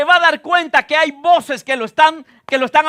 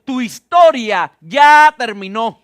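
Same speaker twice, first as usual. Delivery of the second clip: slow, loud decree; 2 semitones lower, 5 dB louder, slower than usual. Retold or imitated. Preacher imitating voices that rise up against you, slow decree. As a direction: pronounce it slowly and loudly like a decree. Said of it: "voces que se levantan decretando".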